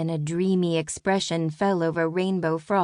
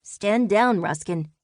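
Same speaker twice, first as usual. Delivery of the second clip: commanding; 3 semitones higher than usual. Acted. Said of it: "Lucas commanded".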